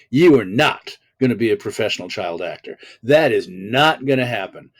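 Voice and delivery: loud, emphatic refusal; imitating a firm parental no; stern parents. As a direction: lay down the law as a parent, hitting each NOT. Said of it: "My parents were, were very clear".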